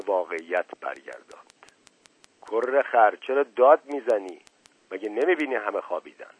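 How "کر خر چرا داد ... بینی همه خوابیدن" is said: a touch of irritated scolding; angry father. Acted. Father scolding the shouting boy, mildly angry. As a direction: snap at the boy to hush.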